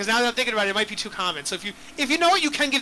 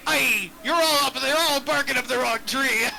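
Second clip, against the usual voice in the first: pirate voice; 2 semitones higher than usual. Acted. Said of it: "The, the dragon would say".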